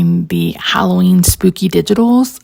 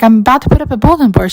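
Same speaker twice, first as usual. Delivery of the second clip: her own reply; 4 semitones higher, much faster than usual. Retold or imitated. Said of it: "I'm like".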